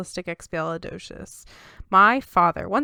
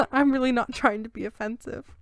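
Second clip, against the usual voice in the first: laughing apology; 4 semitones higher than usual. Real, not acted.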